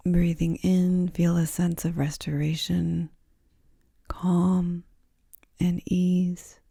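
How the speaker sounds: unhurried, soothing guidance into rest; guided yoga nidra. Acted. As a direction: ease the listener down gently, phrase by phrase.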